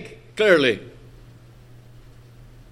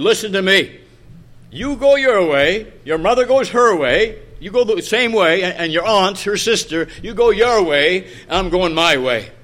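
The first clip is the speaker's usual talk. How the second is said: firm, louder imitated father, each way stressed; dismissive father; 4 dB louder than usual. Father sending his little girl off, mildly acted dismissal. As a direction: lay down the law, brushing the child off. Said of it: "Dismissing her".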